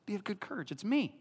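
Jesus calming his terrified disciples in a whisper; soothing whisper. Retold or imitated. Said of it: "Jesus comes up and goes".

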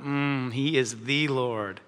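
savouring. Shown as a demonstration. Acts out savouring the verse.

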